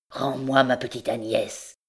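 relentless demand, lightly voiced; insist, deaf to the girl's plea; a hint of an obsessed mother; implacable recluse. A narrator's reading. Recluse pursues her demand.

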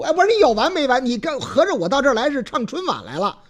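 不耐烦抱怨. Acted. 消防员不耐烦.

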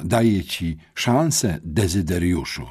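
slow, lightly voiced headmistress; quoting the headmistress. Boy quoting the headmistress's words, slow and deliberate. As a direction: spell it out the way she did. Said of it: "tak powiedziała".

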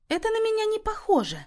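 a high, doubtful drawl of disbelief. A narrator's reading. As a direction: stretch it out as if you can't believe it. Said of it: "с сомнением протянула Люся".

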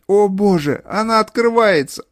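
high, loud alarm; terrified cry. A narrator's reading. Mother seeing her door open, terrified high cry. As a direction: cry out in horror.

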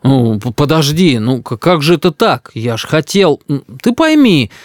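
stammering, rising plea; flustered grandfather. Acted. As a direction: stumble over the words, begging to be understood. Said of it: "Дедушка заметался по комнате".

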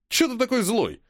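high whiny plea, pitched well up; whiny schoolboy complaint; whining. A narrator's reading. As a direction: whinge like a sulky teen. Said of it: "заныл он".

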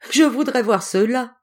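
high, loud laughing scoff. A narrator's reading. Antelope laughs at the turtle's boast, mocking. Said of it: "riait l'antilope".

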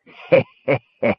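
acted mocking snicker; evenly spaced sly giggles; snickering laugh. Crazed king mocking from the dark, snickering. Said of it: "Rapaldo's snickering laugh".

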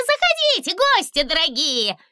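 очень высоко и громко, в восторге; радостно зазвать гостей; ecstatic welcome. A narrator's reading. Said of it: "Восторженно засуетился он". (восторженный писк)

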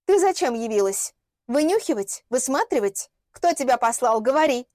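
insistent, sharp questioning; hostile interrogation. Acted. Лилиана interrogates the unwelcome girl behind a closed door, hostile. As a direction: fire accusing questions, demanding an answer.

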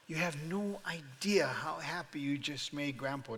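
softened, smiling grandfather's reply; smiling tenderness. Retold or imitated. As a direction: answer the grandchild through a smile. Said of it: "I mustered the biggest smile I could".

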